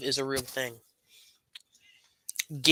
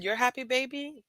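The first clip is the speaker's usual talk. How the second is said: higher-pitched mother talking to her little one; retold tender question; 10 semitones higher, 3 dB quieter than usual. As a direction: gently ask your child, lightly acted. Mother retells asking her child.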